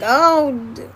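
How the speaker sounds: high-pitched overanalyzing mom; fretting mom. Acted. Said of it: "as a mom, it's like".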